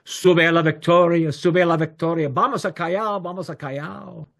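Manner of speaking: high, chanted destination call, trailing off; imitated Lima bus tout, loud then fading; bus driver calling out. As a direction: call the stops to the whole street. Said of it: "The bus drivers would call out".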